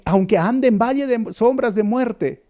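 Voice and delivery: aunque ande en valle de sombras de muerte proclaimed high and loud, each word pressed; fervent quote. Acted. Preacher to his flock, proclaiming the psalm loudly. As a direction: cry the verse out like a rallying call.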